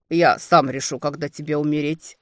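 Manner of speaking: each word hammered out; clipped and cold. Acted. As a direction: rap out every word. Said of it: "отчеканил он".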